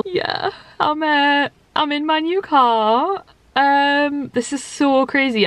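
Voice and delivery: tearful. Real, not acted. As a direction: speak through tears. Tearful arrival in new car.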